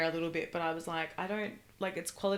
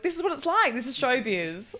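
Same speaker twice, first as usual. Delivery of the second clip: mock showbiz grandeur; 5 semitones higher, 4 dB louder than usual. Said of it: "And I was like".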